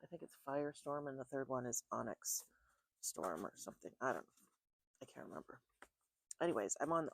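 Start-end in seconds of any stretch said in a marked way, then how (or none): 3.0-4.5 whispered trailing aside; whispering. Real, not acted. Forgetting title, trailing aside. 5.0-5.6 whispered to herself; whispering. Real, not acted. Forgetting title, trailing aside.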